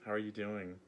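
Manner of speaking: lightly acted hello, starting high and easing down; friendly greeting. Healer showing viewers how to greet the earth, friendly. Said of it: "Just be like".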